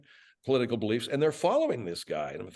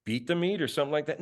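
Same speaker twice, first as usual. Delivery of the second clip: a lightly raised, cheeky sidekick voice; Bud character voice; 4 semitones higher than usual. Acted. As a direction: Bud butting in with a smirk, a bit higher. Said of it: "and then Bud jumps in".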